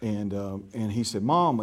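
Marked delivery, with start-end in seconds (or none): 1.2-1.6 put-on country kid calling for his mom; country little fella. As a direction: lightly imitate a small boy's country twang. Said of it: "you know how country little fella talks".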